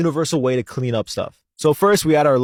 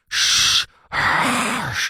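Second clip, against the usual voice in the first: harsh hiss imitation; 7 semitones higher than usual. Shown as a demonstration. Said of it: "kinda go like".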